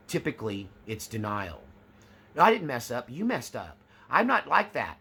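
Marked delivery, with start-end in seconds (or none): 2.4-3.8 higher and louder, defensive and rising; escalating mock denial. Covert narcissist denying a mistake, shrill rising defence. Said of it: "with each denial, the pitch raises". 4.1-5.0 higher and louder, NOT pushed hard; defensive mock denial. Covert narcissist rejecting criticism, hammed-up rising denial. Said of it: "with each denial, the pitch raises".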